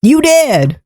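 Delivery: hammed-up monster line. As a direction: snarl it as the monster. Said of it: "It's like".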